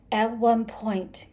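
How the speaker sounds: slow, forceful hissed whisper. A narrator's reading. Creature recounts its grievance to Arthur, hissing. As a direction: hiss it out slowly. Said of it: "he hissed".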